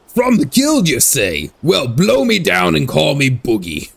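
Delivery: lightly hammed pirate. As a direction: read it like a cartoon pirate. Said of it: "try to read this pirate voice line".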